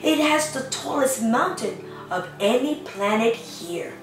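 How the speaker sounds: gentle storybook reading voice; lightly sing-song picture book reading; reading to children. Acted. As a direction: read the rhyme to little ones. Reads picture book aloud.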